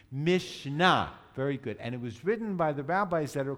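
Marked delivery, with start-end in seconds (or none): 0.1-1.1 "Mishnah" the Sephardic way, loud, stressed on the final "nah"; Sephardic pronunciation. Shown as a demonstration. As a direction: model "Mishnah" for the class, accenting its second syllable. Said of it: "let's do the Sephardic".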